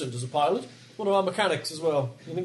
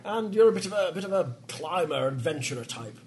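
attempted American accent; 6 semitones higher than usual. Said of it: "I've turned English again".

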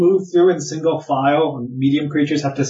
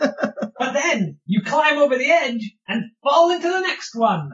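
a laugh breaking into the words; 10 semitones higher than usual. Real, not acted. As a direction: speak through laughter. Laughing while describing falls.

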